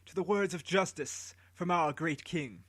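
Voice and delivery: proclaiming to the crowd; herald's call. Acted. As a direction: keep the herald's formal ring. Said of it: "Anuki said".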